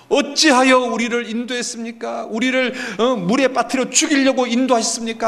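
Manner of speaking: high, agitated protest; acted indignant wail; accusing outcry. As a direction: accuse God as a panicked crowd would. Acts out Israelites protesting again.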